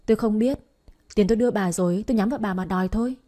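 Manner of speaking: acted angry brush-off; brusque dismissal. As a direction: cut in and demand the money. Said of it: "Các bà kia gạt ngang".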